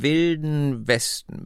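Wilden and Westen stretched long, savoured; old lady relishing Wilden Westen; drawn out. A narrator's reading. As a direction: linger on Wilden Westen as if something glamorous. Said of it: "zog die Worte Wilden und Westen in die Länge".

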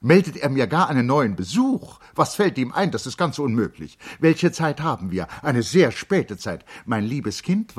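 high, loud, flustered protest; agitated. A narrator's reading. Charlotte protesting to the servant Mager, high and agitated. Charlotte upset at unwanted visitor.

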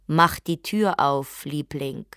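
slow, calm, coaxing; really calm. Acted. Husband coaxing his wife calmly to open the door. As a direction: coax her gently, slow and level. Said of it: "und zwar wirklich ruhig".

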